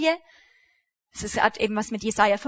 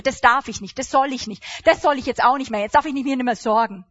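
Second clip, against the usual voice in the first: mocking rule-bound Christian; 5 dB louder than usual. Mocking evangelical prohibitions.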